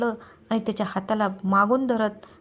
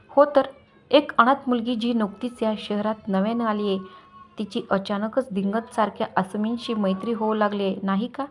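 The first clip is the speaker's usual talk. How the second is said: mocking, needling question; sarcastic. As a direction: taunt her with each word. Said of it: "त्यानं खोचकपणे विचारलं".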